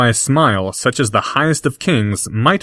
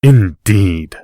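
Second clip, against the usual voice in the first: snapped; 4 dB louder than usual. Acted. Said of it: "snapped the other boy".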